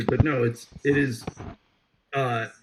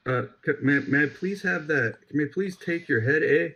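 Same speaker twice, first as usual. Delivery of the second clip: Canadian accent attempt. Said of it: "that was Scottish".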